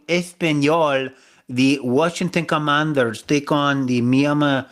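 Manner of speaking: slow, hammed-up bad Spanish accent; mock Spanish announcer, slowly; badly faked Spanish-accent announcing; terrible Spanish accent. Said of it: "that was a terrible accent".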